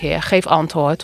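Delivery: "Heer, geef antwoord" said slowly and earnestly; slow plea. Acted. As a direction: plead again, drawing it out slowly. Elia prays for fire. (Elia herhaalt zijn gebed, langzaam en ernstig)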